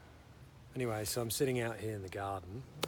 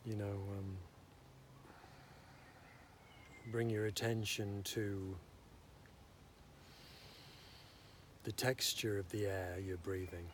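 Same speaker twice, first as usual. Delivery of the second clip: unhurried meditation guidance with long pauses; guided meditation; 7 dB quieter than usual. Real, not acted. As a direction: gently talk them through breathing and listening, leaving space. Leads a breathing meditation.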